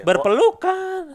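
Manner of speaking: very high, slow sing-out; Teletubbies catchphrase. Retold or imitated. Joking to co-host that Teletubbies hug, high drawn-out Teletubby call. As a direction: stretch it out high and loud like a children's TV character.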